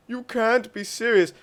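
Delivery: can't believe what he just heard; incredulous victim. Acted. Victim's disbelieving reply.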